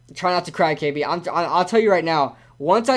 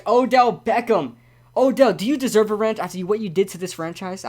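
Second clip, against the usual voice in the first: mock scolding; 3 semitones higher than usual. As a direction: playfully take Odell to task. Teasing scolding of Odell, admitted play.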